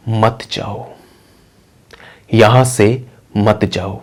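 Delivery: slow, soft ghostly warning; unhurried, hushed phantom telling her to stay; eerily gentle and drawn-out; calm spirit voice. Acted. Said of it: "पहले तो वो बहुत आराम से बोलता है".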